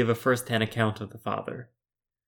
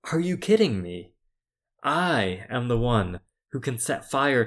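frustrated God. Pretend. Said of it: "the reader can feel God's own frustration".

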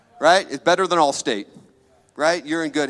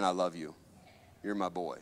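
still small voice; 6 semitones lower, 9 dB quieter than usual. Retold or imitated. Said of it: "that still small voice, that whisper".

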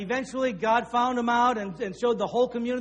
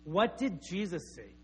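slow mother question; 4 semitones lower, 6 dB quieter than usual. Retold or imitated. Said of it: "Jill would look at her and say".

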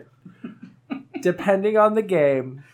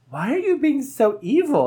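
higher-pitched mock protest; retold plea, pitched up; imitating distressed friend; 7 semitones higher than usual. Imitating a tortured friend mid-game, high-pitched protest. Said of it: "and she's like".

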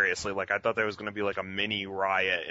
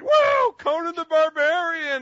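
much higher, much louder whoop; mock yell; 10 dB louder than usual. Imitating the heckler cheering a trailer, loud and high. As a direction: cheer the title like a rowdy fan. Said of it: "the guy went".

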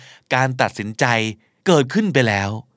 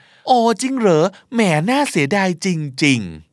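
mock-sorry, drawn out slowly; hammed-up insincere regret; fake regret; 3 semitones higher, slower than usual. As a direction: pretend to be disappointed, slowly. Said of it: "ไอ้นี่ไม่ได้อยากจะกินอาหารฝีมือเพื่อน".

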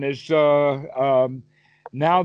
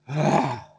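satisfied sigh; 2 semitones lower than usual. Retold or imitated. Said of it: "They sit down and they sigh. And they say".

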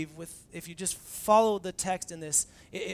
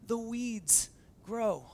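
pleading why; 5 semitones higher, 6 dB louder than usual. Retold or imitated. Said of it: "I would say".

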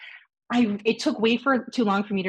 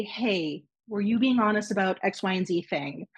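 retold calm question. Guest retelling her careful question to him, calm. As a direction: keep it calm and contained. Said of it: "so I can just calmly say".

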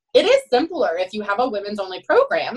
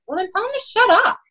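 higher-pitched dismissive comeback; blunt retort; 12 semitones higher, 4 dB louder than usual. Retold or imitated. Coach answering captains worried about being teased, blunt retort. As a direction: fire back with emphatic bluntness.

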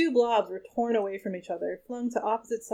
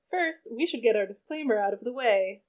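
nasal whine. Acted. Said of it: "in her wobbly nasal whine".

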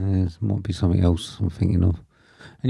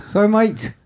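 silly sign-off voice; 13 semitones higher than usual. Acted.

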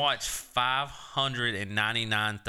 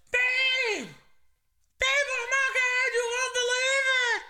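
excited wife; much slower than usual. Retold or imitated. Wife calling down at night, shrill with excitement. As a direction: shout the news up high like an excited wife. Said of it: "Raven goes".

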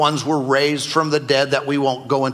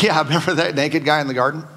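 laughing mock quote; faster than usual. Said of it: "you think".

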